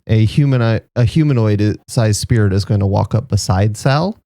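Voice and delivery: ordinary delivery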